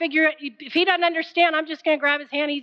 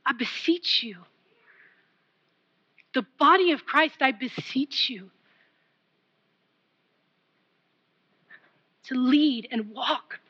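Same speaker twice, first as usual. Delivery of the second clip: solemn plea. Acted. Solemn appeal to congregation.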